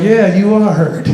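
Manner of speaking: slow, deadpan teacher's reply; unbothered teacher. Retold or imitated. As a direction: agree slowly, with no sympathy at all. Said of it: "Teacher was like".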